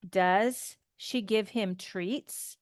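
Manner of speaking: slow, rising tune on treats; slow yes-no question rise. Shown as a demonstration. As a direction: let Does she give him treats rise slowly. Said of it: "Notice my intonation".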